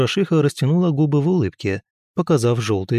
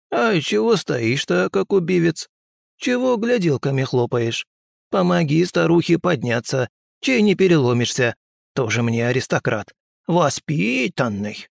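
put-on higher old crone voice, nagging; scolding old woman; 6 semitones higher than usual. Old healer nags him to help her up. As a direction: nag like a bossy village witch.

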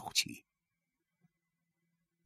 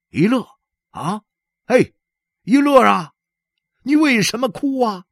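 higher, louder concerned call; blacksmith calling out; 14 semitones higher, 7 dB louder than usual. Acted. Blacksmith Fang calling to crying Yile, loud and concerned.

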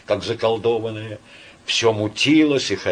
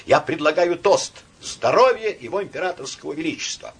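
rapturous toast; 7 semitones higher than usual. A narrator's reading. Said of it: "восторженно заговорил он".

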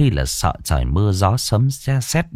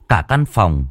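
ordinary delivery

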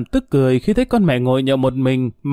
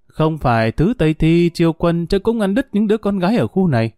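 higher-pitched, huffy boasting; tartly haughty; 4 semitones higher than usual. Acted. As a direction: brag with a touch of sass. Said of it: "Bà Chín Chiêu cong cớn". (cong cớn, lên giọng khoe con)

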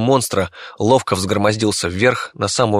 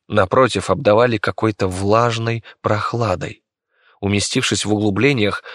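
ordinary delivery, nothing marked

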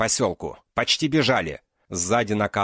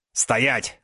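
shouted command; 3 semitones higher than usual. Acted. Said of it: "крикнул фюрер".

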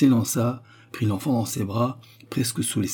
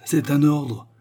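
loud, raised-pitch command; exclamation du chef; 6 semitones higher, 5 dB louder, slower than usual. A narrator's reading. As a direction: exclaim it as an order from the chief. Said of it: "s'écria le chef". (ordre lancé d'une voix forte)

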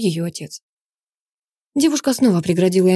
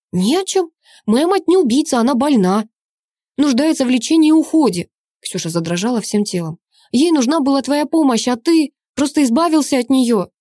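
high, loud desperate cry; anguished shout; 6 semitones higher, 4 dB louder than usual. A narrator's reading. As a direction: fight back for your mother. Daughter defends her mother.

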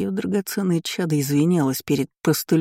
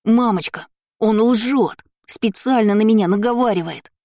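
put-on high, loud whiny child voice; fake hysterics; 7 semitones higher, 4 dB louder than usual. A narrator's reading. Spoiled boy wails to his mother, fake hysterical. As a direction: throw a staged tantrum to mum. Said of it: "наигранную истерику мелкого поганца".

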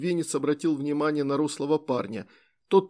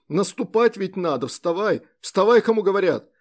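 louder, higher furious command; shouting; 4 semitones higher, 5 dB louder than usual. A narrator's reading. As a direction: bark the order to get up. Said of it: "закричал Антокольский".

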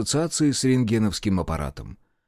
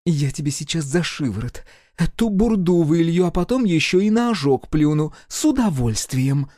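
higher, sharper threatening voice; angry threat; 5 semitones higher, 3 dB louder than usual. A narrator's reading. Woman threatens Mosya over the tea, angry. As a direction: threaten him with relish.

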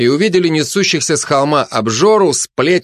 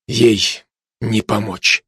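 slow, final pronouncement; matter-of-fact; 2 semitones lower, much slower than usual. A narrator's reading. Commando gives up on the glutton, matter-of-fact. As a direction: state it slowly as settled fact. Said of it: "констатировал спецназ".

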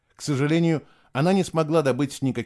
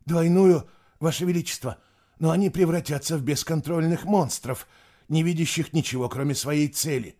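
higher, startled objection; astonished; 6 semitones higher than usual. Acted. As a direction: protest in alarm. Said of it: "Глаза учёного расширились от удивления".

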